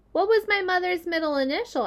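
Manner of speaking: high, tiny little voice; small spider voice. Acted. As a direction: squeak it like a baby spider. Second spider speaks.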